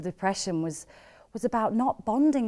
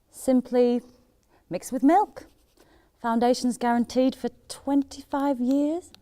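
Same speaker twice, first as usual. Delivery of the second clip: light advert-presenter lilt, slightly higher; mock advert; 4 semitones higher than usual. Selling Weetabix as cement, mock advert. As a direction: spoof a sales pitch.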